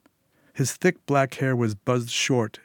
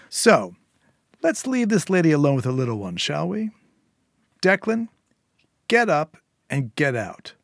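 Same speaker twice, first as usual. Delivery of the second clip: higher, louder cold scolding boss; menacing gang boss; 5 semitones higher, 3 dB louder than usual. A narrator's reading. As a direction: lecture her like a patient but dangerous boss. Eddie gives orders.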